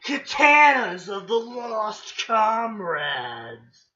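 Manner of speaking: theatrical weapon-name reveal; drawn-out, portentous title reading; dramatic announcer. Pretend. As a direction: proclaim it with mock grandeur. Reads weapon names dramatically.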